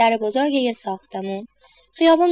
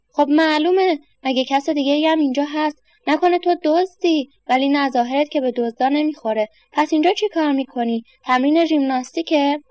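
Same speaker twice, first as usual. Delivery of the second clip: gruff questioning man; 4 semitones higher than usual. Acted.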